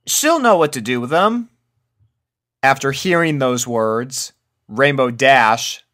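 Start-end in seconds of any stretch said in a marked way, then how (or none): 0.1-1.5 Applejack voice. A narrator's reading.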